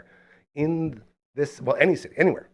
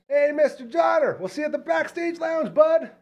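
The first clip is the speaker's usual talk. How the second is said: retold yell. Host hollering goodbye to the star, high shout. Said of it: "and I yell".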